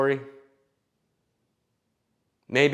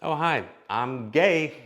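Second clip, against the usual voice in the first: mock gay guy; 5 semitones higher, slower than usual. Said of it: "Or he's like".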